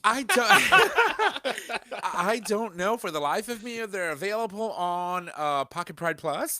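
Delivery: high laughing burst. Real, not acted. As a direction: laugh through the words.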